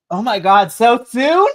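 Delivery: high, loud disbelieving cry; surprised. Retold or imitated. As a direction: gasp it out in disbelief. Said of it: "And I'm like".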